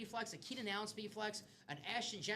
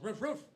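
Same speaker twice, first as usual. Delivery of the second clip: playful mock dog bark; 5 semitones higher, 5 dB louder than usual. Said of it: "a hound".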